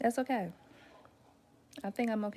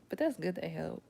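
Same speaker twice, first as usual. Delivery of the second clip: ordinary talk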